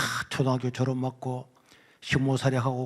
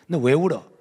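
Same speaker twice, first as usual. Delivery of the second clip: stern teacher; 6 dB louder than usual. Retold or imitated. Teacher questioning crying student.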